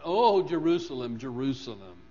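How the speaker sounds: a loud lament, calling out to the city; crying out. Retold or imitated. Preacher voicing Jesus over Jerusalem, loud lament. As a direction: cry out over Jerusalem with grief in the voice. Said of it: "cry out".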